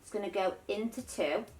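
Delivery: reaching up, slightly strained; straining on tiptoes. Real, not acted. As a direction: talk while stretching up on tiptoes. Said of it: "I'm actually on my tiptoes right now".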